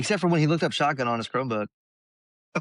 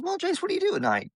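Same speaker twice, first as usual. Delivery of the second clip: doctor voice. Retold or imitated. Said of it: "he goes".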